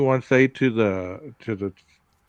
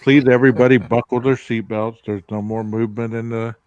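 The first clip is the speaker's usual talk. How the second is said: pilot announcement. Pretend. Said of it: "pilot voice".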